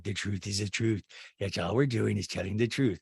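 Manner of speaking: low put-on rambling; Rinna. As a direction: drone it low, imitating her. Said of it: "Did she talk this way during sex?".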